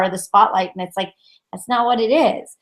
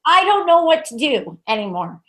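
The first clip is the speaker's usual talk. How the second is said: imitated frustration, pitched up; frustrated; 5 semitones higher than usual. Guides complaining to Nikki about people, frustrated. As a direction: voice the guides at their wits' end. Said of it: "like, frustrated".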